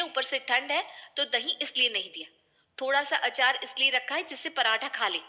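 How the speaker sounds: angry retort. Acted. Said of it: "Sunidhi गुस्से में kitchen से बाहर आती है".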